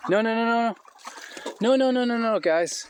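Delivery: real hurried protest to the ducks; urgent calling out. Real, not acted. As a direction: call the ducks back urgently. Stopping ducks going to bed.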